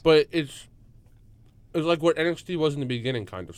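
talking through a mouthful of food; words round a bite of Chinese food; mouth full. Real, not acted. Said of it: "Sorry, I'm speaking with my mouth full".

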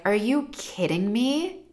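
mock furious telling-off, loud punched commands; angry scolding parent. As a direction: imitate a parent berating a child. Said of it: "and they're like; I am so mad right now".

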